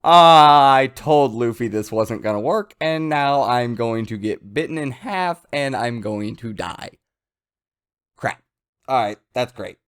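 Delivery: terrified. Acted. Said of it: "absolutely terrified look on his face".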